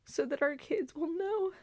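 holding back tears on the last word; real emotion welling up mid-sentence; emotional. Real, not acted. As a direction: voice catching with rising emotion. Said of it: "I'm getting emotional".

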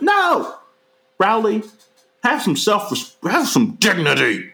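high, real cry of disbelief; exasperated outburst. Real, not acted. Reviewer shouting at Rowley's choice, high exasperated cry. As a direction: yell at the screen in disbelief.

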